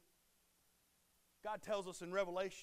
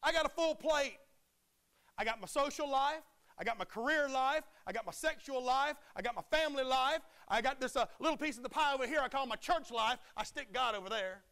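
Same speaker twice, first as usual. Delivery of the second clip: mock lukewarm Christian; 5 semitones higher, 8 dB louder than usual. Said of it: "It's like saying".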